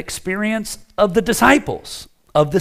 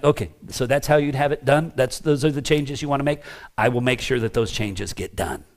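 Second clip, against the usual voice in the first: softer, agreeable deacon's reply; compliant deacon; 2 semitones lower, 6 dB quieter than usual. Acted. Deacon yielding to the elders' changes, quietly compliant. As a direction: accept the correction quietly and without ego.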